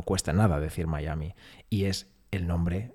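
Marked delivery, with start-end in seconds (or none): none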